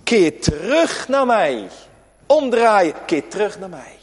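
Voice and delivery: slow, pleading call back; calling plea. Acted. God calls his people back, a slow pleading call. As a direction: call them home, slowly. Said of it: "dat oproep".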